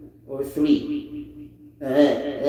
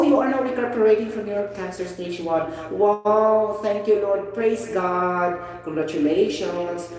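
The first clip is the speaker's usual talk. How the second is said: mock-thrilled reaction, starting high and settling; acted joyful congratulation; 4 semitones higher than usual. Teacher acting out news of someone recuperating from cancer, joyful congratulation. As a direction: act out delighted relief, easing down. Acted example of hearing of recovery.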